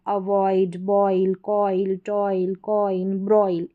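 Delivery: बॉयल, कॉइल, टॉयल with a full "oy" glide. Shown as a demonstration. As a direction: list अवॉइड to ब्रॉयल word by word, low and measured. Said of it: "ओई करके होता है".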